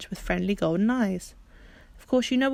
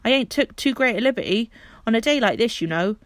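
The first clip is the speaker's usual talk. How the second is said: apologetic Perks; 2 semitones higher, 5 dB louder than usual. Acted.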